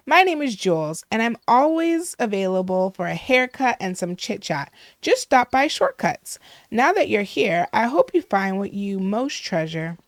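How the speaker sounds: lightly voiced gushing villager; chatty, dramatic hairdresser. Hairdresser welcomes a newcomer to a dull village, lightly gushing. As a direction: greet the newcomer with a touch of drama. Voices a game character's introduction.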